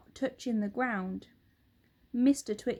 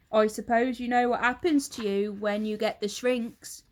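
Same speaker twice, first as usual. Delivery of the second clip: put-on a louder, gloating old husband; Mr Twit; 6 dB louder than usual. Husband taunts his wife, loud and gloating. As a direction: lean in, relishing the lie.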